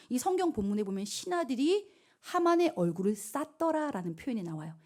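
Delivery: normal talking voice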